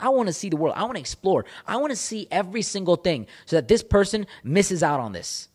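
high-pitched, insistent resolve; worked-up, hungry self-talk; fired-up determination. Retold or imitated. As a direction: list each ambition with driven urgency. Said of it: "I'm like".

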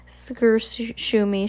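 put-on high, babyish babble; a baby's garbled reply. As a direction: babble like a toddler. Baby Sunny babbling.

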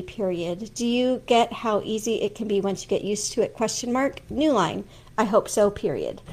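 reading out punctuation marks aloud; dictating. Shown as a demonstration. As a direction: dictate to software, saying each mark. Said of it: "let me just give you kind of an example".

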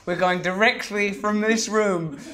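mock militant manifesto. Mock summary of the guest's message.

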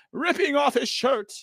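mock awe. Reading absurd NFT descriptions.

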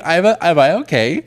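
high, loud, overexcited retelling; worked-up self-questioning. Retold or imitated. Retells showing mom concert TikToks.

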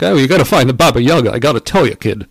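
quick, hammed-up comedian impression; Rodney Dangerfield. Yokel character passing a quest to the player, comedian impression. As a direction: imitate a wisecracking comic, rattled off fast. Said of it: "the Rodney Dangerfield was like".

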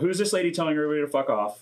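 quick disbelieving retelling; amazed. Retold or imitated. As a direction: rattle it off, amazed and amused. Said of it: "she's just like".

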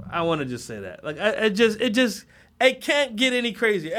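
ordinary talk, nothing marked

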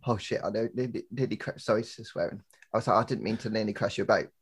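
quiet, embarrassed sorry; sheepish apology. Retold or imitated. Retold apology after near crash.

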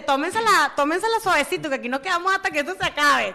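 half-shouted retelling of a defiant toast; retold yell. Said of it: "le pegó un grito".

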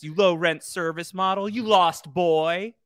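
sling the insult, drawing out the end; high, hammed-up retort; clapback. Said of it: "Mother once again with the, with the, the clapbacks".

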